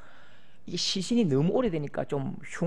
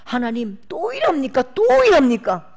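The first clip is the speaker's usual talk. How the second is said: Elijah's protest; 3 semitones higher, 3 dB louder than usual. Acted. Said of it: "엘리야도 이 마음이에요".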